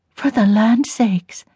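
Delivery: put-on very slow, old woman's drawl of amazement; granny struck dumb, drawn out; astonished grandmother. A narrator's reading. Grandmother bewildered.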